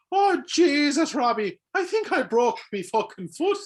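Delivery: high, loud, drawn-out Irish wail; thick Irish accent. Acted. Injured jet skier crying out to Robbie, hammed-up Irish accent. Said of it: "That's how he said it".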